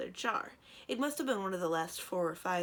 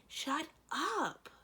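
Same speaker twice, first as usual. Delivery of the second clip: high, exasperated snap; 11 semitones higher than usual. A narrator's reading. Cimmerian silences Thranduil, high exasperated snap. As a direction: lose patience with him. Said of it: "in exasperation".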